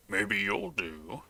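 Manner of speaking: very slow, put-on villain voice; mad janitor. Mad janitor sizing up the player, slow creepy character voice. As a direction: stretch it out as a deranged janitor. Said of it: "you hear the mad janitor say".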